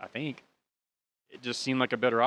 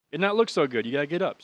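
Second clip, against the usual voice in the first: louder, higher mock German accent; 4 semitones higher, 4 dB louder than usual. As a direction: ham up a German cop's broken English. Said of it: "It's my German accent".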